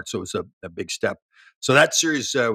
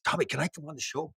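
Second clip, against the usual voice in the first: put-on little kid; 5 semitones higher, 6 dB quieter than usual. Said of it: "he's like this little kid".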